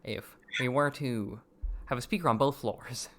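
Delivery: deadpan meme voice; dry, fast debate-bro delivery; Ben Shapiro meme voice. Shown as a demonstration. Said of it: "I just heard it in the fucking Ben Shapiro meme voice".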